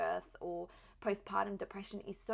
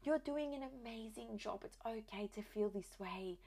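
soft, slightly raised, gentle reassurance; retold tearful reassurance; 3 semitones higher, 4 dB quieter, slower than usual. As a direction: gently comfort an upset daughter. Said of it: "she started crying".

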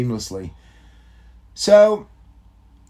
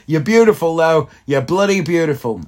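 loud, raised-pitch praise for his wife; gushing compliment; 5 semitones higher, 6 dB louder than usual. Real, not acted. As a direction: gush at her through a laugh.

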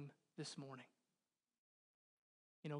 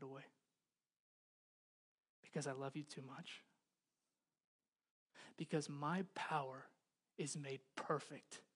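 God's answer; 4 semitones lower, 7 dB quieter than usual. Retold or imitated. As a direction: voice God refusing gently but firmly. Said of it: "You know what God says?".

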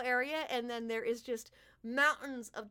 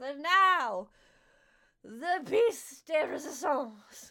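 higher, louder showman's thank-you to the crowd; grand fey king; 4 semitones higher, 7 dB louder, slower than usual. Acted. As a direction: announce it like a ringmaster king. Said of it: "And he smiles".

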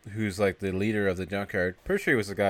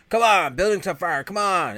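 loud, high acted alarm; retold urgent yell; 9 semitones higher, 7 dB louder than usual. Man rousing a couple from a burning building, mock urgent yell. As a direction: yell it like you're retelling a fire warning. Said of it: "He starts yelling at him".

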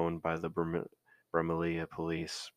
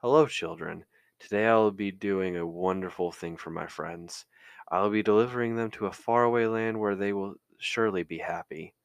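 muffled bear mask voice, louder; 3 semitones higher, 7 dB louder than usual. Acted. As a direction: speak through a mask. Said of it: "The unmistakable muffled voice spoke up".

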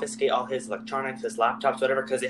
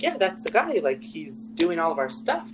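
mock excited dad; 5 semitones higher than usual. Dad voiced in retold story.

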